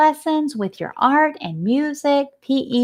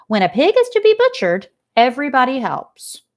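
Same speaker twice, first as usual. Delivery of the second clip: put-on old sheep voice; 4 semitones higher than usual. Sheep explains butchering.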